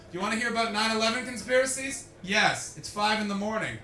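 a light take on a wired cocaine talker; coked-up rambler. Pretend. Comic imitating a guy on cocaine at a party, lightly wired rambling. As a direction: play someone babbling on cocaine at dawn. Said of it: "Let me do my impression of what happens when you do cocaine".

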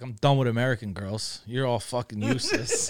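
mock-serious with a laugh breaking in; deadpan brag that cracks into laughter; joking declaration. Joking to the guys, mock-serious with a laugh. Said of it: "my joke now is".

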